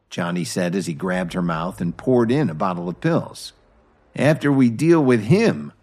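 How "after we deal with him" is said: higher, louder menacing threat; understated villain's snarl. A narrator's reading. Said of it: "he snarled".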